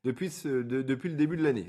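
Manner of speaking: tongue-tied false starts before finishing the phrase; real fumbled, halting restarts; stumbling over words. Real, not acted. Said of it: "Excusez-moi, je bafouille".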